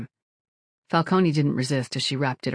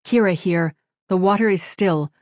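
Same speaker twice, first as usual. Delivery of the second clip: formal ritual reply; 4 semitones higher, 6 dB louder than usual. A narrator's reading. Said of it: "as was right and proper".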